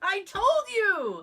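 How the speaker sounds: high, loud, drawn out slowly; proving her co-host wrong, triumphant and slow; told you so. Real, not acted. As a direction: gloat triumphantly. Vindicated by the credit.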